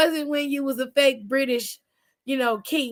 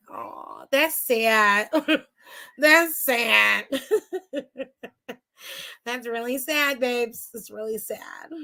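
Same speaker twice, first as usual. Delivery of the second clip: mock pity; 2 semitones lower, slower than usual. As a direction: pity him through giggles.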